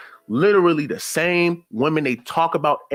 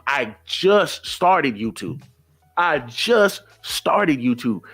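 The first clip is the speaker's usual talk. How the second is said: slow emphasis; much slower than usual. Real, not acted.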